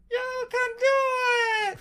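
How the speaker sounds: high, slow, echoing memory voice; dreamy distant voice. Pretend. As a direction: drift it out like a far-off memory. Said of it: "my dream voice".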